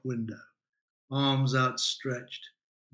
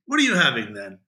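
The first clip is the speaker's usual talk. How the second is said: hearty bonhomie; 6 dB louder, faster than usual. Acted. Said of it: "bouncing simulacrum of bonhomie".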